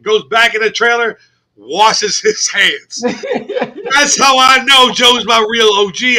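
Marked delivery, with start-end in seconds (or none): 3.0-6.2 slow, laughing, raised declaration; loud laughing praise; laughing shout. Real, not acted. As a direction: laugh it out with delight.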